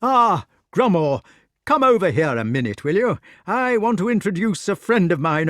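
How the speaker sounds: high, loud, flustered calling across; an embarrassed host calling a friend over. A narrator's reading. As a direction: hail him over, blushing and fussing. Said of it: "blushed deeply and called out".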